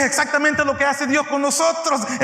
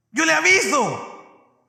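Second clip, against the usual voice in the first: mock promise; 4 semitones higher, slower than usual. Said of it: "Así me dicen".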